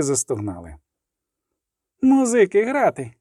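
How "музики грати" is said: high, loud cry to the band; shouted command. Acted. Iskra shouts at the musicians to play. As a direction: whip the musicians into playing. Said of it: "крикнула Іскра".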